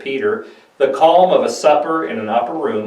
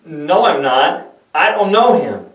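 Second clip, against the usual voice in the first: panicked denial; 5 semitones higher, 3 dB louder than usual. Acted. Peter denies knowing Jesus, high and flustered. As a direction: deny it, caught and scared.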